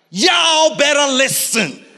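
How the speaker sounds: slow, high call of Y'all better listen; exclaiming. Retold or imitated. Preacher acts Jesus calling out, slow emphatic holler. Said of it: "It's like going".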